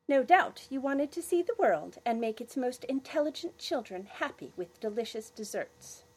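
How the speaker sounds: put-on butter him up, girlishly; girl voice. Girl flattering chef.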